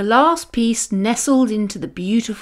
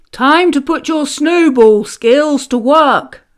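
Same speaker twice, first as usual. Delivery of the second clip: higher, louder owl call; hooting owl; 5 semitones higher, 6 dB louder than usual. A narrator's reading. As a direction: sing it out like a rallying owl. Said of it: "hooted Owl".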